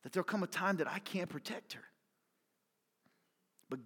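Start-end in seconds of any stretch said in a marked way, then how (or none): 0.0-1.8 near tears. Real, not acted. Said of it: "I'm about to cry".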